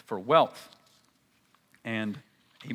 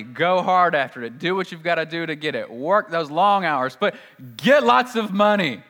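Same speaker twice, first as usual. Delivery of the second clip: building push; 5 dB louder than usual. Acted. Preacher mocks worldly advice.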